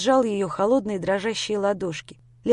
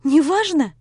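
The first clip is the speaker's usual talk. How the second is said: sharp indignant echo, pitched higher; flaring up; 6 semitones higher, 4 dB louder than usual. Acted. Lera flaring up at Grisha's dodge, indignant. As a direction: snap the word back at him in disbelief. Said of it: "вспыхнула Лера".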